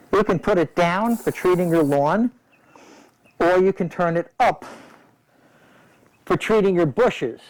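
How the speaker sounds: talking through a respirator mask; words muffled behind a face mask. Real, not acted. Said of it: "I hope you can hear me through this mask".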